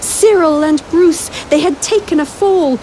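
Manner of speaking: dramatic. A narrator's reading. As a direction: build suspense to the drop. Dramatic narration of the fall.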